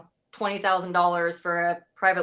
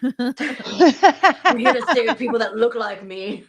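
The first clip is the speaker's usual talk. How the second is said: lesbian firefighter voice; 4 dB louder, much slower than usual. Pretend. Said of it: "let's hear y'all's best lesbian firefighter voices".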